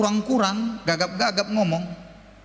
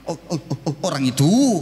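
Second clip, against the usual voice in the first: stuttering salesman; 4 semitones lower than usual. Retold or imitated. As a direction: repeat the first sound before the words.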